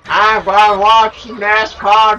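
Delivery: slow, loud redneck drawl imitation. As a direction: put on a lazy redneck voice. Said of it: "it's more like".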